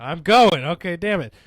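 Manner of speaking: loud, fed-up I'm going; exasperated burst. Real, not acted. Storyteller snaps back at hosts rushing him, loud and fed up. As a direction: blurt it out after being rushed.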